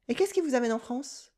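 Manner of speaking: fast, run-together French question; blurred fast question. Acted. Stranger at the cafe asks, fast and blurred. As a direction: rush the words so they blur together. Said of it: "the words totally blur together".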